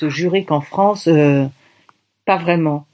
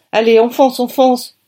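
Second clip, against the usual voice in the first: louder, higher rallying call; urgent hurrying; 8 semitones higher, 4 dB louder than usual. A narrator's reading. Producer hurrying the group out, urgent. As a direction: get them moving now. Producer hurries everyone along.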